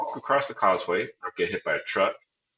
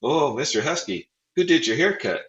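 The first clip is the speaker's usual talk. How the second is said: put-on teasing kids; 6 semitones higher, 4 dB louder than usual. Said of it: "my percussion kids were like".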